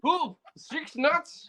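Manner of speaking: high-pitched put-on Bangladeshi voice; mock Bangladeshi accent. Podcaster plays a listener tuning in, high mock Bangladeshi accent. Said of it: "That's how they sound".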